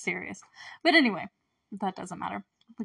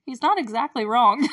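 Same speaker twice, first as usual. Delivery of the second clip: knowing aside; 3 semitones higher, 5 dB louder than usual. Retold or imitated. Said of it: "And I'm like".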